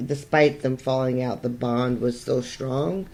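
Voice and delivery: muffled, like talking through a paper towel tube; distant and muffled, as if through a tube; far away voice. Real, not acted. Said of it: "You sound so far away".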